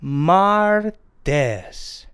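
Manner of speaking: martes broken slowly into MAR, tes; slow pronunciation demo. Shown as a demonstration. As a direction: stretch MAR, then let tes fall. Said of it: "Tuesday is pronounced martes".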